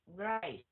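"right" said with the teeth brought together; teeth-biting pronunciation. Shown as a demonstration. Teacher showing learners the bite, teeth-together "right". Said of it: "Cái này là cắn răng".

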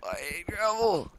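high, slow, drawn-out whine. Acted. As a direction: stretch it out up high. Repeats line in varied voices.

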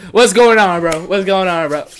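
high, loud complaint; exasperated rant. Real, not acted. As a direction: yell it in exasperation. Ranting at developer about broken game.

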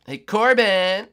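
long sing-song shout for a friend; calling out. Real, not acted. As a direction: call across the map slowly.

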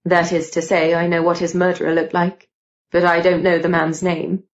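lightly voiced young man explaining; a hint of a sober male character; matter-of-fact Gideon.

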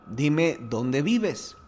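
a tired driver losing patience; fed-up plea. Retold or imitated. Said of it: "se desespera y le dice".

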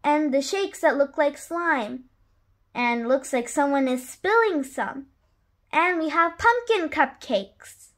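put-on lively read-aloud rhyme for children; story narration. A narrator's reading. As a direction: read it like a bedtime picture book. Reads a rhyming picture book.

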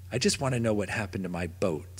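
a small dog's sad whimper; sad yip. Acted. Dog pleading about his lost boat, sad and soft. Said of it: "Sniffers yipped".

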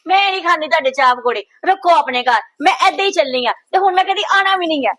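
indignant refusal. Acted. Daughter refuses her mother's tea, indignant. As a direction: push the food away in a huff.

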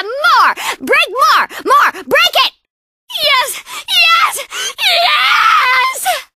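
egging on, building to a scream; frenzied cheering; wild excitement. Acted.

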